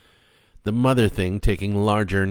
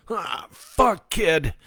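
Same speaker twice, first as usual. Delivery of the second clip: disappointed; 11 semitones higher, much slower than usual. A narrator's reading. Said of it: "with a bit of disappointment in his voice".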